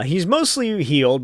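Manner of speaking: ordinary delivery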